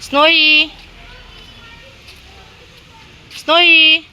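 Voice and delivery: high, loud name call; loud high call for a dog. Real, not acted. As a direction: sing out her name to fetch her. Calling dog Snowy.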